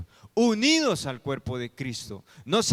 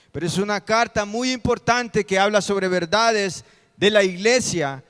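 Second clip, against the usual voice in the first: louder, higher-pitched pulpit teaching; preaching; 4 semitones higher, 8 dB louder than usual. Real, not acted. Pastor explains the church as a body, projected preaching. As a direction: project it firmly to a congregation.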